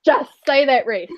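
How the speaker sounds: scolding, building to an emphatic repeat; mock outraged disbelief. Reader retelling a reaction to Reese, scandalised. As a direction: act appalled, punching the second "did not". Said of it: "oh, I lost my shit".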